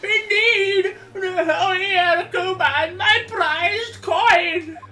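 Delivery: put-on old man voice. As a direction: ham up a fussy old man. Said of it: "that old man voice".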